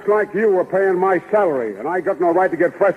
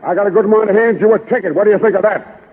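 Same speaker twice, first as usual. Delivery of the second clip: tough cop; 3 semitones higher, 6 dB louder than usual. Acted. Cop threatens a ticket.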